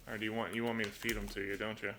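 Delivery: quiet, coaxing words to a bird; soft pet talk. Real, not acted. Owner softly coaxing the parrot onto a perch, quiet pet talk. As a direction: gently coax the bird to come over.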